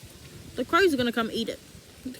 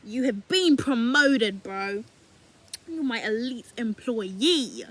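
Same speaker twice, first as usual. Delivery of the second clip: mock God voice; 2 semitones lower, 3 dB louder, much slower than usual. God speaking to devoted believer.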